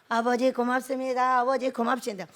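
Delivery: monotone droned thanks; mock drowsy prayer. God hearing a snorer's thanks, drowsy drone. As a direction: intone it as if nodding off mid-prayer. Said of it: "그 코골이를".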